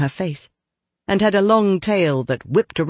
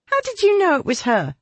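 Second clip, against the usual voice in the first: much higher, wide-eyed question; eager young girl. Acted. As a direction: ask it high and amazed. Diana amazed.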